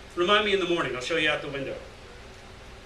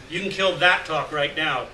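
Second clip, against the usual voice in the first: slow, firm warning, a little louder; bristling; 4 dB louder than usual. Acted. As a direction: shut the talk down, slowly and firmly. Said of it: "Gary bristled".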